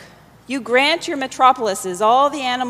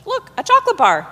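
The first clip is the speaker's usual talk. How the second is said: high, louder bright offer; cheery distraction; 12 semitones higher, 7 dB louder than usual. Acted. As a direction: dangle it like a treat. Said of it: "Mister Chiba in English".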